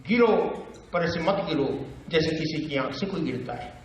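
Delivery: understated, paused verse; Bhavani Prasad Mishra. Acted. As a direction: pause after the command, then talk it through. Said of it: "बातचीत की शैली".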